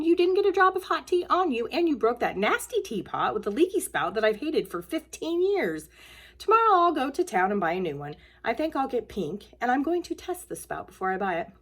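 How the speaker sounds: a hint of a jolly old lady; cheerful Mrs Pigglewiggle. Mrs Pigglewiggle brushes off the broken teapot cheerfully.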